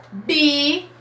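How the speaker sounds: "bi" as one joined syllable; isolated syllable. Shown as a demonstration. Teacher showing the first syllable of Bíblia, sounded out. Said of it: "eu tô falando bi".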